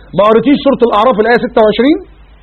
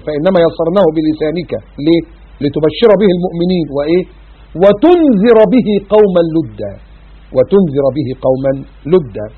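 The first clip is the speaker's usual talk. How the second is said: Quran recitation; 3 semitones lower, slower than usual. Acted. Recites Surat Maryam.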